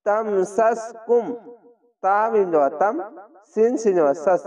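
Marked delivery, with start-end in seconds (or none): 0.1-1.3 slow, careful tajwid recitation of তামসাসকুম; recited slowly. Shown as a demonstration. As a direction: draw out তামসাসকুম syllable by syllable. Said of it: "slow Quran recitation demo". (ধীরে ধীরে তেলাওয়াত)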